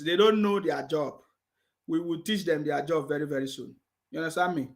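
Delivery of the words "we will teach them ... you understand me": low, soft and menacing; quiet threat. Real, not acted. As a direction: promise it under your breath.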